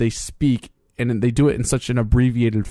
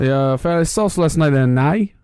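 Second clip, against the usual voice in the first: Australian accent; 3 semitones higher, slower than usual. Shown as a demonstration. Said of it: "you just kinda go up at the right end".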